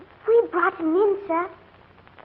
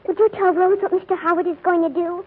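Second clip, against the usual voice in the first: tearful. Acted. Child upset, about to cry.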